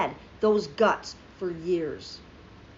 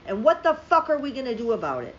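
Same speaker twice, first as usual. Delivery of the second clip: angry, hitting the word fuck hard; heated rhetorical question; furious question; 3 dB louder than usual. Real, not acted. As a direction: demand an answer in frustration. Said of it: "I'm so furious right now".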